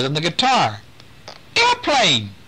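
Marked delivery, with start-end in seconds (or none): 1.6-2.3 put-on baby voice. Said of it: "he said".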